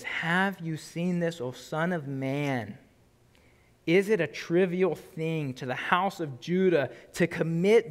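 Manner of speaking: slow, measured Bible reading; solemn preacher reading scripture aloud. Acted. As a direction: read the verses slowly and gravely. Reads scripture passage aloud.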